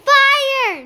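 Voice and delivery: loud, high shout of alarm; alarmed cry. A narrator's reading. Nick seeing smoke pour from the oven, alarmed cry. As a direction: cry out a sudden warning. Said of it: "Nick cried".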